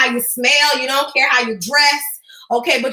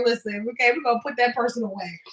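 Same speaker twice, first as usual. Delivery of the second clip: dismissive viewer; 5 semitones lower, 6 dB quieter than usual. Acted. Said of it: "gonna just be like".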